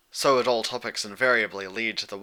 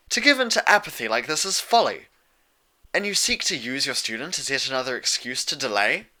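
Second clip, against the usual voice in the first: a formal princess rebuking, higher and louder at first; Luna, indignant night princess; 4 semitones higher, 4 dB louder than usual. Acted. Luna rebukes Celestia for her apathy, indignant formal rebuke. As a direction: scold with royal conviction.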